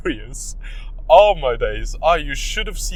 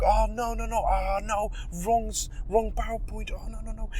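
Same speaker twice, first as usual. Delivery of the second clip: fake panic; 8 semitones higher, 4 dB quieter than usual. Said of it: "I'm like".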